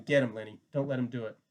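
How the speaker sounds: loud urging shout; yelling. Acted. George yells at Lenny to fight back, loud. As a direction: shout across the room to spur him on.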